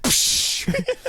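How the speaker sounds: high, loud, laughing through words. Real, not acted. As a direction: laugh while telling it. Excited laughing aside.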